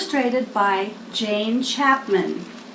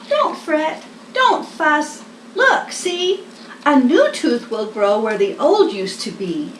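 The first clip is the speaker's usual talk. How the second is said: squeaky Mouse; 2 semitones higher than usual. Acted. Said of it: "Mouse squeaked".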